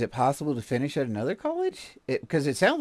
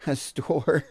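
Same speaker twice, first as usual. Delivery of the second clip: laughing; 5 semitones higher than usual. Real, not acted. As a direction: chuckle breaking into the words. Laughing at own stalker joke.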